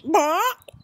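loud, high rising chicken cluck; sharp rising "bawk"; chicken squawk. Acted. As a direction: squawk it like an insistent hen. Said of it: "The chicken points to the back shelf".

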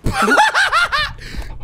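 real high-pitched laughing fit; high helpless laughter. Real, not acted. Viewer reacting to the taped ball home run, laughing hard.

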